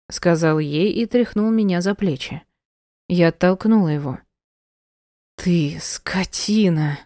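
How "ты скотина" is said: slow, furious whisper; whispered loathing at the husband; hissed insult. Acted. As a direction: spit it out in a slow whispered rage. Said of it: "прорычала я".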